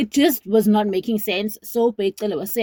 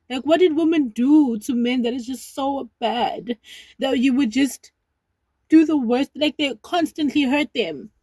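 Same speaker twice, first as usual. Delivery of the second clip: tearful plea; 3 semitones higher than usual. Real, not acted. Tearful plea to men after crying.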